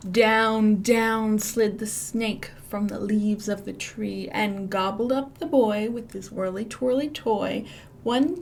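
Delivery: lilting storybook rhythm; rhythmic read-aloud. A narrator's reading. Librarian reading the picture book to kids, lilting. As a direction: read it with bouncing rhyme for children.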